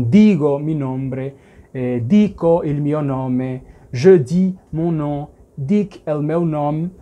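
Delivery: slow list of phrases, each word set apart; teacher listing example sentences slowly. Shown as a demonstration. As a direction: run through the model phrases for learners. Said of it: "Então".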